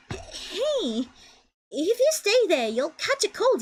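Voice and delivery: a hint of a fashionable British woman; light posh English lilt; British accent. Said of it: "I'm gonna give her, like, a, an accent".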